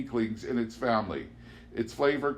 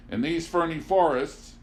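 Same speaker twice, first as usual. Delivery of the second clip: John Paul; 6 semitones higher, 4 dB louder than usual. Acted. John Paul answers Amanda.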